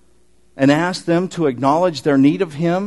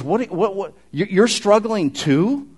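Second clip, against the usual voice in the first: slow probing question; 4 semitones higher, slower than usual. Acted. Jesus probing disciples' struggle.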